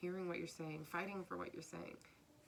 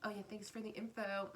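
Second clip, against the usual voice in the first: snooty emperor. Acted. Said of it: "this is a snooty emperor".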